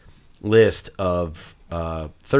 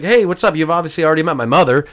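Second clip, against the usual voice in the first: high, loud friend impression; brisk, high-pitched imitated reveal; 8 semitones higher, 5 dB louder, faster than usual. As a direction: drop the news in a friend's excited voice. Paige reveals her mother, retold.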